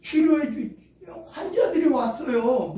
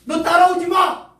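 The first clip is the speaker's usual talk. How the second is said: higher, louder mock shout; mock harsh rebuke; 8 semitones higher, 9 dB louder than usual. Mock Jesus shouting away a would-be follower. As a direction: bark it like a scolding master. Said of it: "이러지도 않으셨어".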